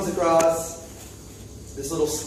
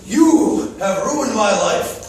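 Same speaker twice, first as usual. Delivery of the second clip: louder, very slow, mock-wounded accusation; hammed-up grievance; 4 semitones higher, 5 dB louder, much slower than usual. Prince blaming Marshall for his ruined life, slow and loud. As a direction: lay the blame on him slowly and loudly.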